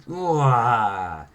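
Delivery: drawn-out "wah" chomp noise; biting into fruit. Acted. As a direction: imitate taking a big bite. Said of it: "then she bites into one".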